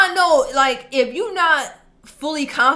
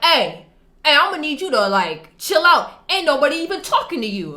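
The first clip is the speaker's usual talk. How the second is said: put-on boyfriend warning; 4 semitones higher, 5 dB louder than usual. Boyfriend confronting the kid.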